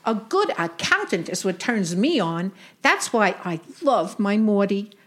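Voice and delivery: put-on old Brooklyn aunt with Yiddish lilt; yiddish accent. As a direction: play a wisecracking Jewish aunt. Sadie role continues.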